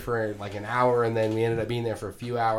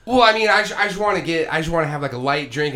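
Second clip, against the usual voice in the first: pitched up, defensive and apologetic; sheepish high excuse; 4 semitones higher, 6 dB louder than usual. Retold or imitated. Sheepishly defending his light beer order to Chuck. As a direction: squeak it out like a caught kid.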